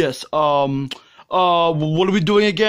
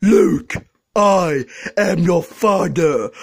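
Darth Vader voice; much slower than usual. Acted. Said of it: "Darth Vader quote".

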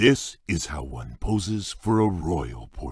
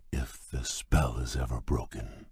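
whispered, wistful aside; a whispered hope of breaking the spell; 5 semitones lower, 8 dB quieter than usual. Acted. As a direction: breathe it out as a sad hope. Beast wistful about the curse.

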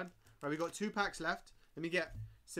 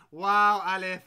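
a loud, scandalised wow; mock-outraged wow; 13 dB louder, much slower than usual. Real, not acted. Streamer reacting to a friend's rude joke, mock outraged. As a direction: call him out in jest.

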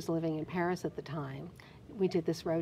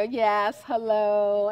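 demure polite greeting; 6 dB louder, much slower than usual. Retold or imitated. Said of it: "I would just smile a lot".

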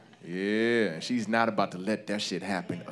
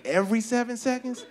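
puzzled thinking; 12 semitones higher than usual. Acted. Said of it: "but I'm thinking".

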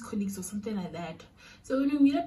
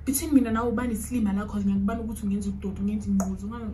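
angry rant; much faster than usual. Retold or imitated. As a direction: retell his swearing fast and hard. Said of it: "he's literally swearing and going off".

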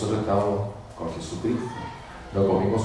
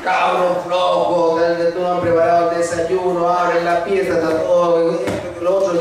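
higher, louder mock scolding of lazy kids; scolding mother; 6 semitones higher, 3 dB louder than usual. Priest imitating a mother scolding her lazy sons, higher and louder. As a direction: nag like a mother turned lioness. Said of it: "hecha una leona".

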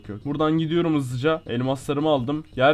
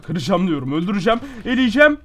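mock threat; 4 semitones higher, 5 dB louder than usual. Real, not acted. Threatening opponent in game.

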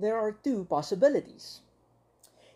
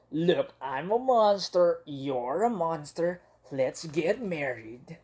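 slow tender; slower than usual. Acted. Monster proposes marriage.

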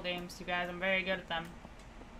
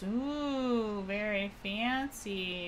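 slow, drawn-out fake awe; sarcastic ooh, dragged slowly; much slower than usual. Real, not acted. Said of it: "Sarcastically cheeking".

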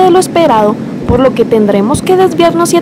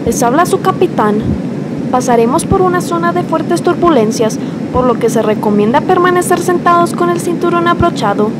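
airport announcement; 6 semitones higher than usual. Acted. Captain announces on the plane.

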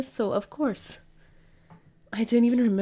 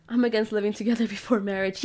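laughing. Retold or imitated. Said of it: "Why are you saying that again?".

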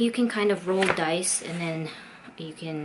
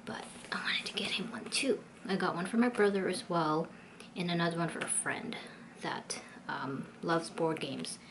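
hushed whisper, keeping a secret; 6 dB quieter than usual. Real, not acted. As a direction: whisper so he won't hear. Whispering while hiding boyfriend's gift.

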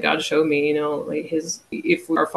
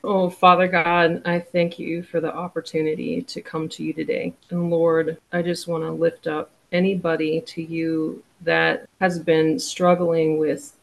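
prayer. Acted. Praying for viewers struggling with mental illness, earnest prayer voice. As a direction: lift them up to God gently.

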